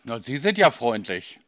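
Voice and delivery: dry, sarcastic undertone. Real, not acted. Caller to a curt agent who won't explain again, sarcastic. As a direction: say it with a touch of sarcasm. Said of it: "höre nämlich den Sarkasmus in Ihrem Unterton".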